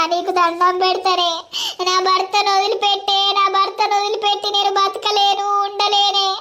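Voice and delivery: wailing, tearful begging; wife weeping and begging him to leave the other woman; sobbing plea. Acted. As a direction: cry out your plea, half-sung in grief. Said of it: "ఏడవకే బిడ్డ".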